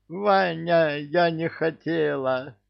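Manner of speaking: high, pleading female voice, lightly acted; pleading woman. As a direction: plead like a wife who made a mistake.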